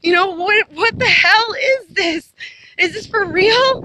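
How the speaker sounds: incredulous delighted cry, drawn out; excited, grinning disbelief. Retold or imitated. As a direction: replay the stunned joy of the moment. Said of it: "I had the biggest smile on my face".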